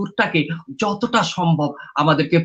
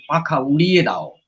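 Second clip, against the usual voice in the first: a light recitation lilt, lines rising and falling; poem recital. Shown as a demonstration. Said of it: "সারা জীবন ধরেই আমাদের বলতে হবে যে".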